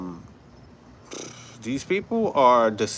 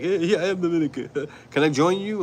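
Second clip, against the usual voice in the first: put-on high, quick caricature of a Dominican accent; hammed-up eager Dominican accent; mock Dominican accent; 7 semitones higher than usual. Imagined newcomer asking to join the camp, mock Dominican accent. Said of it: "like I have an accent".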